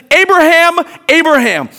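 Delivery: loud, high call from afar; emphatic call. Acted. Angel calling out to Abraham from heaven, emphatic shout. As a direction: call the name out urgently. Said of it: "he says it with emphasis, emphatically".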